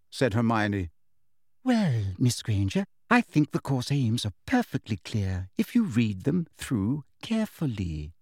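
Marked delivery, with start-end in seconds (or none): 1.6-8.1 sugary but unyielding; sweet on top, iron underneath; firmly sweet teacher's reply; determined sweetness. Acted. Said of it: "in a voice of determined sweetness".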